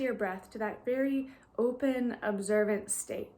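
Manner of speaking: calm, even guiding voice with long pauses; guided meditation. Real, not acted. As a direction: gently lead listeners into stillness, leaving long silences.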